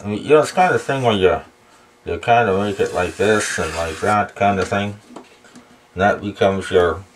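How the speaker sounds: talking around a pen in mouth; words muffled by a pen held in mouth. Real, not acted. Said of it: "sorry, I got a pen in my mouth".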